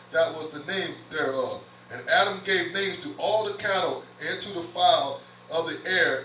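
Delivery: measured, phrase-by-phrase Bible reading; preacher reading aloud from Genesis; scripture reading. Acted. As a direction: read the verse out deliberately, pausing between phrases. Reads scripture aloud to the congregation.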